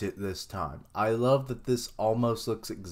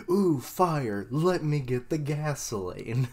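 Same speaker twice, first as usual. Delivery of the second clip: put-on eager kid voice; 4 semitones higher than usual. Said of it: "a kid who's like".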